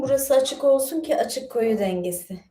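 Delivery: ordinary talk, nothing marked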